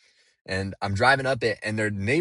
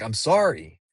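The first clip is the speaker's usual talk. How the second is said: sincere apology; 4 dB louder than usual. Retold or imitated. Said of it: "like, not in an angry way".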